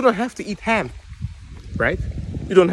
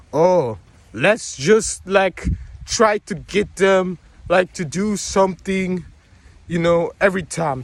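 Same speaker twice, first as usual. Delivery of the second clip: mock schemers; slower than usual. Mocking scheming guys' plotting.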